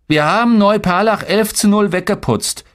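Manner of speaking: put-on high-pitched boastful small boy; grinning little brother. A narrator's reading. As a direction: crow about it in a high kid's voice. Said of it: "grinste Tolga".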